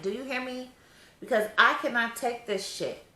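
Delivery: high, loud, sassy exasperation; sassy annoyance. Real, not acted. Overdue mom telling viewers she's annoyed, sassy and high. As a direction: tell them straight, honey, you're done. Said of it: "honey, I am annoyed".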